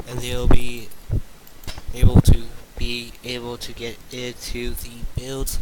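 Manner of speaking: choppy robotic sound. Real, not acted. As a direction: voice glitching like a robot. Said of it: "and I sound like a robot".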